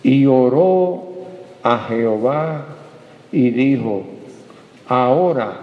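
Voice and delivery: slow, measured Bible reading; solemn reading of Jonah's prayer, slow; scripture reading. Acted. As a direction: read the verse slowly and solemnly. Reads Jonah's prayer aloud.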